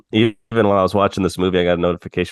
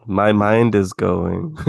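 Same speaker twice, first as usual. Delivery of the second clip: slow computer voice; slower than usual. Retold or imitated. Quoting Hal shutting down.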